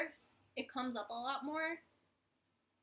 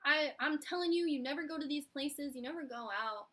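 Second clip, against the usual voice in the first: 1 coworker scolding; 3 semitones higher than usual. Retold or imitated. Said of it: "And then I was like".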